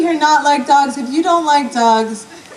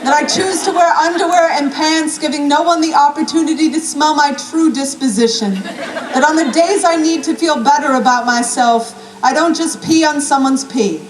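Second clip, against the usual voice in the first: heartfelt, comic poetry recital; spoken-word poem; 3 semitones higher than usual. Acted. Poet reads to Squash the dog, spoken-word delivery. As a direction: recite it as a rhythmic, driving love letter.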